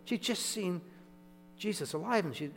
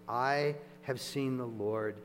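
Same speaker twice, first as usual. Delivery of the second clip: slow announcement; slower than usual. Retold or imitated. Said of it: "what would the tone of voice be".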